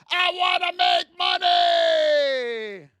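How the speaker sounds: loud, slow, hyped-up wish; drawn-out greedy cheer; eager trader. Retold or imitated. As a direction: shout it like a greedy rookie. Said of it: "Every day you wake up".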